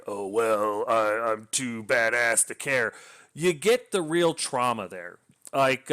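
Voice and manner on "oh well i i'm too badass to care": slow, smug mock badass; a lightly voiced cocky soldier shrugging it off; mock tough guy. Reviewer mocking clichéd heroes, slow and smug. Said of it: "they don't just like".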